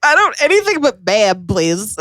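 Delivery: pleading. Retold or imitated. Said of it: "And I was like".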